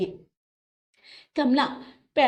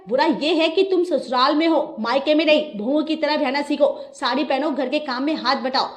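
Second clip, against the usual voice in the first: louder, higher scolding mother-in-law; 4 semitones higher, 5 dB louder than usual. Acted. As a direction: lay down the law to the bride. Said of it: "उसे जोर से फटकार लगाई".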